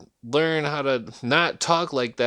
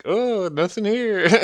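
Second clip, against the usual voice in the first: slow, higher innocent voice; mock innocent; 7 semitones higher than usual. Hiding a joint from people walking by, slow mock innocence. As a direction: play dumb to the passerby.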